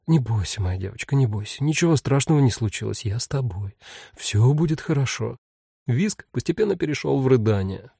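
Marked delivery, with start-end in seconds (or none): 0.1-5.4 soft comforting mumble; soothing murmur. Acted. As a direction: gently soothe a scared child. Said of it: "утешительно забормотала".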